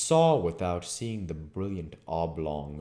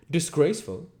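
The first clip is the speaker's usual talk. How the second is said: puzzled echo; 11 semitones higher, 7 dB louder than usual. Acted. Listener repeats the word questioning.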